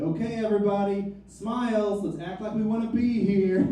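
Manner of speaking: a hint of a chipper choir teacher; rally the room like a perky teacher; lightly voiced upbeat teacher. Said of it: "my high school choir teacher could be there".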